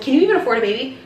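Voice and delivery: imitated skeptical question, rising ending; pointed retold question, lifted at the end; doctor's judgmental tone. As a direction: quote the doctor doubting the patient. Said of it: "that was her tone".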